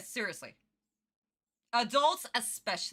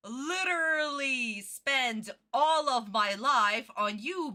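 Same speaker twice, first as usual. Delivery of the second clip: slow, word-by-word dismissal; emphatic telling-off; slower than usual. Retold or imitated. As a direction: spell it out slowly for a former friend. Acts out telling off ex-friends.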